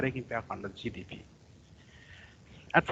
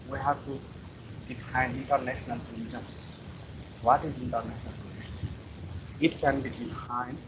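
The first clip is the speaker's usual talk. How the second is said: barely audible; 5 dB quieter than usual. Real, not acted. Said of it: "Your voice is very quiet".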